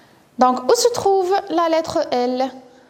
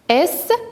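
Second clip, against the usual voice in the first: "Escalier" with long gaps, so the last syllable stands alone; split into syllables; 4 semitones higher, faster than usual. Shown as a demonstration. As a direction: isolate each syllable of "Escalier". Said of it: "Il se trouve dans la dernière syllabe". (« Escalier » découpé avec de longues pauses)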